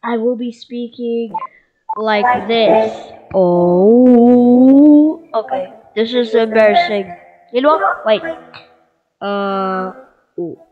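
altered electronic voice effect; voice changer. Shown as a demonstration. Gamer showing the new voice to viewers, voice-changer effect. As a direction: speak through a voice-changing filter. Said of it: "Should I enable my voice changer?".

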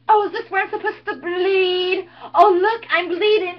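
mocking, sarcastic cheerleader taunting a killer; Buffy monologue. Snooty cheerleader mocking the masked killer, sarcastic.

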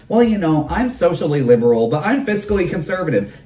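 lightly mocking centrist voice; mocking quote. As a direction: parody the fence-sitter's excuse. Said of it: "getting handed the line where it's like".

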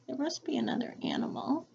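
fast hushed whisper. Real, not acted. Teacher whispering a hint to the kids. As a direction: whisper it like a secret.

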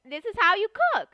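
high, loud presenting voice; playful, emphatic cooking-show delivery; play cooking teacher. Pretend. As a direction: announce the lesson to a pretend class.

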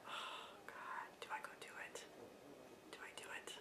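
breathless hushed whisper, hesitating; whispered inner thought. Retold or imitated. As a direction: whisper the doubt to yourself, barely audible. Inner thought about buying ring.

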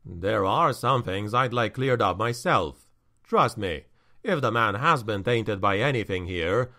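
low, calm reassuring man; steady, firm reassurance; stern counselor. Acted.

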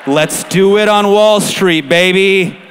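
loud, slow mock party whoop; hammed-up hype shout; mock hyped-up cheer. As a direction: crow it to the crowd, drawn out. Mock party cry about the venue.

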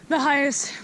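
gasping between words from climbing; too winded to talk; out of breath. Real, not acted. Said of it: "I can't even speak".

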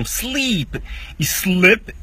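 "Sleep" stretched ee, "slip" short i, very slow; long versus short i. Shown as a demonstration. Teacher contrasting "Sleep e slip" slowly. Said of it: "I, tem duas letras".

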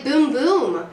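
punchy imitation of a boom; booming sound imitation. Shown as a demonstration. Teacher quizzes student on sound words, booming imitation. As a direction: boom it out like the noise. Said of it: "What makes that sound".

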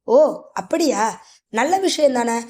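slow, drawn-out put-on pleasure; fake delight. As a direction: pretend to be pleased, hiding a plan. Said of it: "போலியான மகிழ்ச்சியை வரவழைத்துக் கொண்டு".

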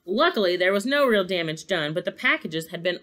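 animated storybook reading; story narration. A narrator's reading. Narrator follows the sleigh's night flight, story narration. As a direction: read it aloud with measured drama.

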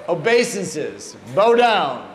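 put-on slow start, then loud Bengali-accented command. Guru sitting back from blown fire, insistent Bengali accent. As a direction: imitate a Bengali-accented order, punching the last words. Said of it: "his Bengali accent".

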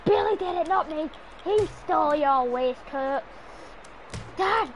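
loud mock plea to dad; mock pleading yell. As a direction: yell like a kid being belted. Child begging dad with belt.

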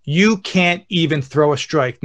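slow, spaced-out heckle; deliberate heckle. Retold or imitated. Dad prepares his kid for hecklers, slow deliberate taunt. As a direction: lay each word out slowly as a challenge. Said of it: "I'm gonna prepare you for this".

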